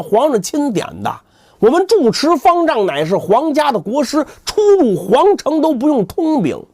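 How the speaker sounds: arrogant boast. Acted. 扫地僧发威.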